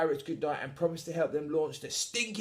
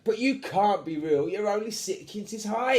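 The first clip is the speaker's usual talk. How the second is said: put-on astonished boy; 8 semitones higher, 5 dB louder than usual. Henry astonished at tiny pirate.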